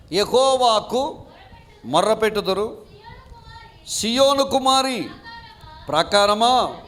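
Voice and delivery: slow, measured Bible reading with long pauses; solemn scripture reading. Acted. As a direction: read each phrase slowly like a sacred text. Reads Lamentations aloud. (నెమ్మదిగా, గంభీరంగా వచనాలు చదవడం)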